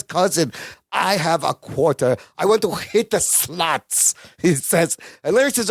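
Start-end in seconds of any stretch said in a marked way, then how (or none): 0.0-4.1 Balky. Retold or imitated. Balky asking his cousin to play, drawn-out imitated voice. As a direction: lower imitated voice, slowing at the end. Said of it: "and Balky says".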